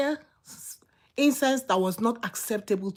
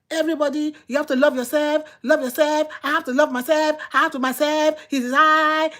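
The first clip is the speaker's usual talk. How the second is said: higher, insistent mimicry; mimicking self-love talk; 4 semitones higher than usual. Preacher imitating people who say love yourself, higher mimicry. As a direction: parrot a repeated slogan, pitched up.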